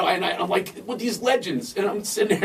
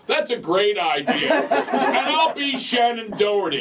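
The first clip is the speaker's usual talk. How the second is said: amused friend; 4 semitones higher, slower than usual. Retold or imitated. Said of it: "She goes".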